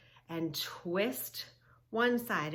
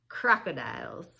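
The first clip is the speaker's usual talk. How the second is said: whispered crocodiles, spooky; 3 semitones lower, 5 dB louder than usual. Shown as a demonstration. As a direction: whisper it like the croc might hear.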